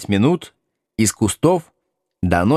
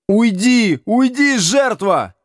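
squealing; 12 semitones higher, slower than usual. A narrator's reading. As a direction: shriek at him to get away through laughter. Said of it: "визжит Градусов".

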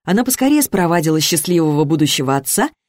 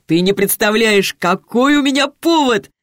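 excited; 5 semitones higher than usual. Acted. Petya bursting with news.

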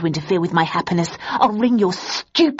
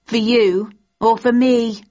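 higher, louder gloating; 5 semitones higher, 3 dB louder than usual. A narrator's reading. Daisy gloating to Thursday about Landon, higher. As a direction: rub it in sweetly.

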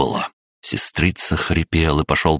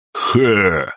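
short scoff; 5 semitones higher than usual. A narrator's reading. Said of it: "только и произнёс Ульф".

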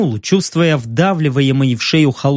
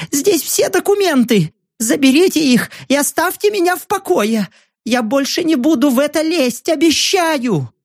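much higher, squeaking on the edge of tears; near-tearful squeak; 10 semitones higher than usual. Acted. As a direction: squeak it out, almost crying. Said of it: "едва не плача запищал".

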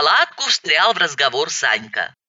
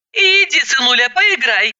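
put-on a touch higher, shooing the boy; mother to son; 9 semitones higher than usual. Mother shooing her son from the table, lightly higher. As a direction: gently send the child off to play. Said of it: "сказала я".

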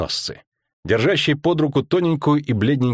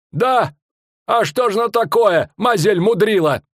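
a pitched-up showman bellowing his tale; fairground barker; 10 semitones higher than usual. Acted. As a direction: sell the monster to the crowd. Showman barker voiced in story.

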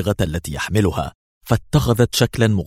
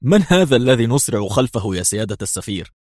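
sarcastic; 3 semitones higher than usual. Acted. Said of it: "ابتسم برونو في سخرية".

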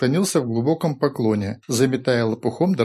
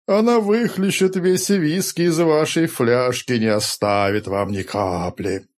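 slow, teasing fake prophecy; mock prophetic wail; 3 semitones higher, slower than usual. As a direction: keep the mock seer's wail going. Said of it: "вдохновенно пророчески заголосил Рори".

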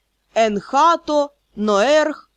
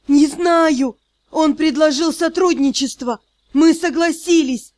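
higher, louder desperate pleading; pleading cry; 3 semitones higher, 3 dB louder than usual. Acted. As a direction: beg for your life. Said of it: "И тоже взмолился".

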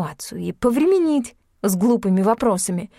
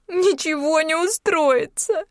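tearful; 8 semitones higher, slower than usual. A narrator's reading. Yulka weeping, refusing comfort.

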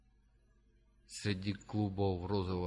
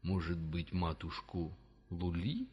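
mocking giant voice; 4 semitones lower, slower than usual. A narrator's reading. Kafa mocking.

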